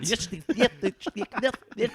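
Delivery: put-on high, botched Borat-like Russian accent; comically failed Russian accent. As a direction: stumble through a bad Russian accent. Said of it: "was that Borat?".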